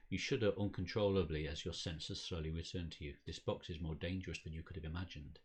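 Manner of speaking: measured dramatic game narration; storyteller reading aloud; story narration. A narrator's reading. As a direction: read it out like an unfolding mystery. Reads the game's story text.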